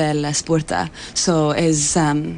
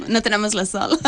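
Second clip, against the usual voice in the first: laughing; 3 semitones higher, faster than usual. Real, not acted. Laughing joke about no sun.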